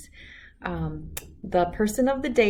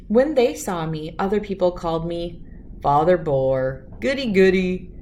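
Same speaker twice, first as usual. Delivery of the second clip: put-on calm, clear storybook reading for kids; reading a story aloud; 2 semitones higher, 3 dB louder than usual. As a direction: read it like bedtime story time. Reads picture book aloud.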